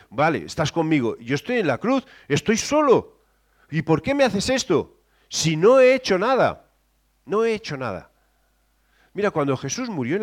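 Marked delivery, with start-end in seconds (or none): 0.1-8.1 lightly voiced hurt plea; Jesus alone on the cross, a hint of anguish; pleading. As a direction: plead with God, feeling abandoned.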